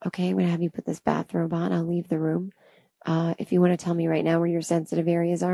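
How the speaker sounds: soft, quick hushed masseur; soft, hurried spa murmur; masseur's hushed voice. Retold or imitated.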